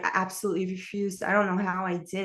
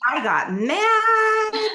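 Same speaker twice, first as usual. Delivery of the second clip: mock angry; 7 dB louder, much slower than usual. Angry at the boy's assault.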